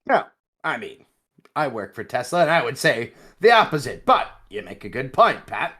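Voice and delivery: a mock Canadian twang, tongue in cheek; joking Canadian-accented reply to his co-host. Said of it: "that's my Canadian voice".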